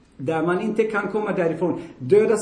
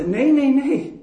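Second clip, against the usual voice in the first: firm, raised triple no; emphatic no; 6 semitones higher, 4 dB louder, slower than usual. Acted. Preacher voicing Jesus to the congregation, emphatic loud denial. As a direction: shut the idea down hard.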